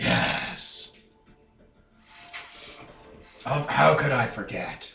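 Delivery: comic-book creature or brute voice. Voicing Barbara answering over the radio: sounds like Killer Croc. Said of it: "It sounds like a Killer Croc".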